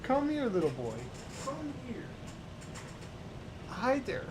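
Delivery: high, sing-song pet voice; high cutesy voice for a kitty. Real, not acted. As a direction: coo up high at the cat. Talking to her cat.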